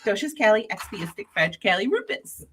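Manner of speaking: word said backwards, syllable by syllable; reciting a long word in reverse; backwards speech. Shown as a demonstration. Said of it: "anybody can say it backwards?".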